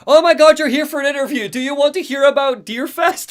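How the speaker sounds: high, gushing radio host excitement; thrilled host greeting a surprise guest; excited radio host. Retold or imitated. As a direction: burst in loud, then keep the pitch way up. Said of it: "he's so excited".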